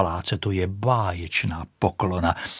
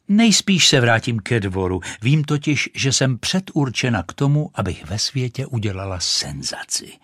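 lightly voiced proud rocket, a touch higher; haughty rocket; 4 semitones higher than usual. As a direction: boast like a vain firework, lightly done. Rocket speaks to the duck. (mírně vyšší, povýšený hlas rakety)

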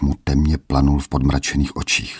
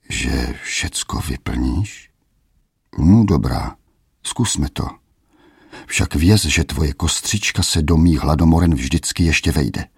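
sinister king. Acted. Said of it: "smál se zlověstně".

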